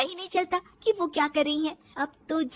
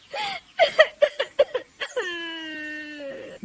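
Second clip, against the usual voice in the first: sobbing; 5 semitones higher than usual. Acted. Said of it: "वो रोने लगती है".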